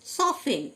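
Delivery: "সফেন" with F and no T; silent T. Shown as a demonstration. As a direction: model "সফেন", leaving out the T after F. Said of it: "টি silent". ("সফেন", টি উচ্চারণ না করে)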